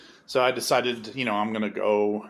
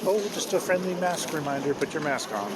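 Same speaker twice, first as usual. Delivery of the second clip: mock sugary polite reminder, pitched higher; more polite; 5 semitones higher than usual. Second flight attendant gives a mock sweet, higher-pitched mask reminder. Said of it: "a lot more polite".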